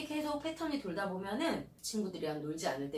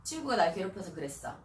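shouted slogan; 6 dB louder than usual. Shown as a demonstration. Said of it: "크게 외쳐보는 거예요".

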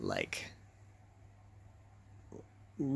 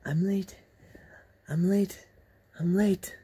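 frantic repeated mutter, getting louder; louder with each repeat; mimicking the muttering man; 7 semitones higher, 7 dB louder than usual. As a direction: act out a man rushing and panicking. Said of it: "he was saying in Japanese".

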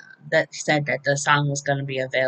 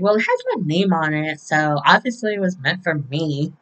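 hammed-up retort with swooping tune; put-on character voice. Trina argues the letter is hers, hammed-up. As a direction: overplay her claim, not realistically. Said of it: "she didn't talk like that".

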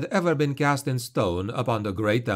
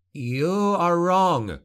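higher, slow, doubting denial; heavy with doubt; 7 semitones higher, slower than usual. A narrator's reading. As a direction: deny it while doubting yourself. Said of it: "his voice heavy with doubt".

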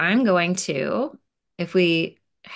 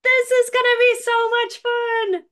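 much higher, louder, squealing with glee; thrilled kid; 4 dB louder than usual. Acted. Kid dreaming of playing in big boxes, thrilled and squealing. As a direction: bounce with childish excitement. Excited kids in story.

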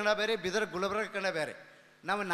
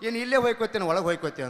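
loud friendly call; 7 dB louder, faster than usual. Retold or imitated. Friend greets guest loudly.

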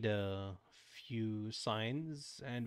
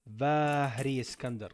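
loud, slow proclamation of a long name; mock grand announcement; 3 semitones higher, 8 dB louder, slower than usual. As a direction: announce it like a royal herald.

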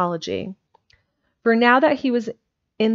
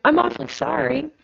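almost crying; 7 semitones higher than usual. A narrator's reading. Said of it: "almost crying".

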